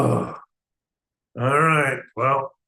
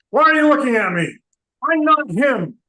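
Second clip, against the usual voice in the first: annoyed outburst; 3 semitones higher, 3 dB louder than usual. Acted. Outburst at people mistaking him.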